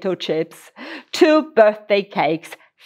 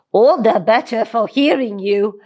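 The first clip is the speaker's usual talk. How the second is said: a hint of a silly wolf; goofy wolf, lightly. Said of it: "replied the wolf in a silly voice".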